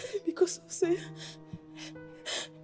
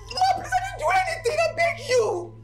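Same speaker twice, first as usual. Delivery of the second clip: tearful begging; 6 semitones higher than usual. Acted. Maid begging not to be sacked.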